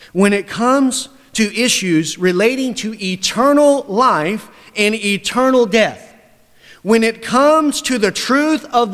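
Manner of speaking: loud, high preaching; full-force pulpit voice. Acted. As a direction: press it home to the congregation. Preacher builds to climax.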